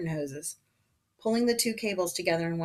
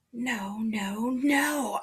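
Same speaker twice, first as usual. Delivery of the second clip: urgent whisper rising into higher voice; anxious whispered protest, growing more voiced; 5 semitones higher, much slower than usual. A narrator's reading. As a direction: start in a whisper, let pitch climb on the repeats. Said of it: "I whispered".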